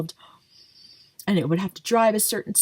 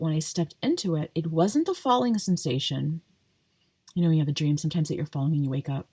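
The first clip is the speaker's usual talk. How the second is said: talking while chewing gum. Real, not acted. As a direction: chew gum as you speak. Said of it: "I'm sorry, I'm chewing gum".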